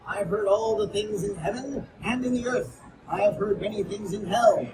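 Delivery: tense, intense narrator voice; dramatic horror reading; gothic story reading. Acted. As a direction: tell it like a madman insisting he is sane.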